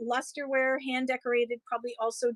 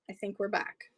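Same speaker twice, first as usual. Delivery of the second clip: tentative; 6 dB quieter than usual. Real, not acted. Streamer to viewers after a dropout, tentative. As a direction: say it quietly, not yet sure.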